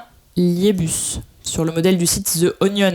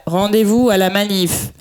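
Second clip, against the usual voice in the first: robotic voice; slower than usual. Retold or imitated. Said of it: "les voix robotiques là".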